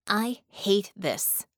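slow, flat and heavy. Acted. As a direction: say it flatly, dragging it out. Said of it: "she said flatly".

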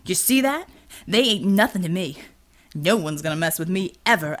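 a smug threat from a big bully; a touch of a menacing villain; gloating villain. Acted. Villain boasts, holds a voice.

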